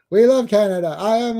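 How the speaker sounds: lightly voiced cartoon Canadian; Terrence and Phillip. Host plays cartoon Canadians greeting everyone, mock-cheery presenter voice. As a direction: do a hammy cartoon introduction, each phrase swooping up then down. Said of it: "My favorite Terrence and Phillip".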